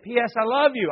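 put-on the kids chirping the title back; kid answering. Pastor's kid telling dad the movie title, high eager voice.

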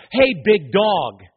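slow, drawn-out casual greeting; casual youth pastor. Retold or imitated. Youth pastor opening a prayer at a convention, casual. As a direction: imitate an over-familiar pastor opening a prayer. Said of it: "This is a casual Christian".

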